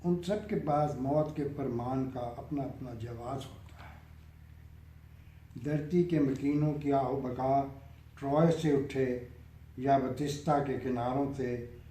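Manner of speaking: measured verse reading with pauses between lines; poem recitation. Acted. Poet reciting a nazm to an appreciative listener, measured recitation. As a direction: recite it line by line, letting each phrase settle.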